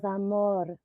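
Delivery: lightly put-on Colombian accent; partner's Colombian accent. Retelling what her Colombian partner said, in his accent. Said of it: "I have to do his accent".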